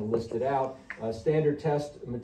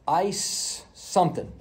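drawn-out hesitant answer; slow unsure guess; 5 semitones higher, 3 dB louder, much slower than usual. Retold or imitated. Malingering patient drags out a half answer, slow. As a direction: stretch it out like guessing. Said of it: "And they go".

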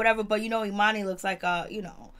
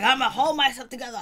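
mock over the top; 4 semitones higher, 5 dB louder than usual. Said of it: "every negative stereotype".

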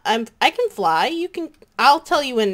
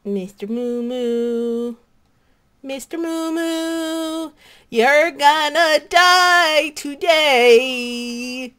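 slow, drawn-out sinister voice, rising higher; menacing villain; 4 semitones higher, much slower than usual. Acted. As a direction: slowly threaten the cow like a villain. Menacing the cow in character.

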